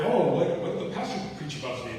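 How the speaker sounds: mock-prideful question, pushed up on "Oh, what". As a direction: imitate your own haughty past self asking. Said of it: "Very pridefully".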